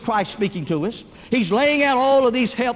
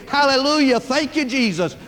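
retold big roar; 3 semitones higher than usual. Uncle Roy roars from the closet at the back, acted out. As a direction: imitate praise roaring from another room. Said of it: "they hear a big roar".

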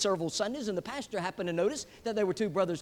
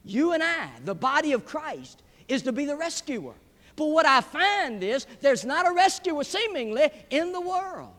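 raised, punched pulpit phrases; emphatic preaching; 6 semitones higher, 6 dB louder than usual. Real, not acted. Preacher charging the church to be rescuer, emphatic preaching. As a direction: proclaim it with weight and force.

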